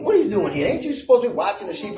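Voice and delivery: quick, lightly acted scolding; scolding brother. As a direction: mildly tell off a younger brother, hurried. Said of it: "His brother just scolded him".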